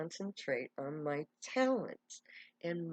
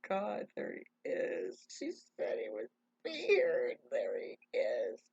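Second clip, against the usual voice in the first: in shock. Retold or imitated. Woman sees the promised man is real, breathless acted shock. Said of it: "in shock".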